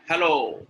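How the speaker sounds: emphatic sample hello; rising intonation. Shown as a demonstration. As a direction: lift and stretch the end of HELLO. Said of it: "Yeah, the rise".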